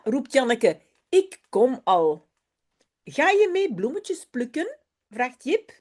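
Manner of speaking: put-on lively storybook read-aloud of a Dutch children's text. Teacher reads a Dutch story to her pupils, lively storybook voice. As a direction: bring Jip and Janneke to life for the class.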